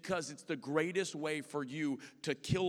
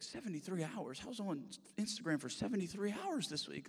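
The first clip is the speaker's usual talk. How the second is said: higher, softer incredulous reaction; mock disbelief; 5 semitones higher, 3 dB quieter than usual. Phone user seeing their screen time, mock disbelief. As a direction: act stunned, pitch climbing as it sinks in.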